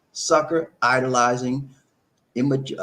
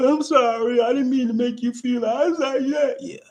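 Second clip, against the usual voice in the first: mock apology; 13 semitones higher than usual. Mocks guilt-tripped boyfriend apologizing.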